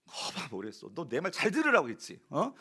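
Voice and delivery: mock scolding of a lost sheep; half-acted I-told-you-so telling off; preacher imitates a shepherd berating his lost sheep, mock scolding. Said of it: "네, 이랬을 것 같아요".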